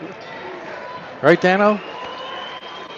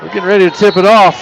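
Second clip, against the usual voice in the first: live play-by-play. Acted.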